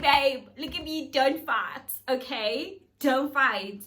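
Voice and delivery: loud urgent pleading with her man; shouted plea to stop a fight. Retold or imitated. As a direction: beg him loudly to stop fighting.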